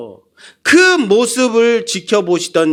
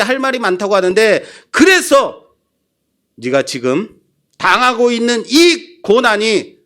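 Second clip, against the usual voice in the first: raised, heated divine rebuke; angry God; 2 semitones higher than usual. Acted. God angrily confronting Job.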